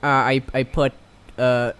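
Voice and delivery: lisping character voice. Acted. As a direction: speak with a light lisp. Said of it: "Now you have a lisp".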